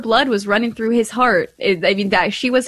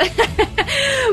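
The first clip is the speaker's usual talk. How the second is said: high giggle; 11 semitones higher than usual. Real, not acted. Laughing at own joke.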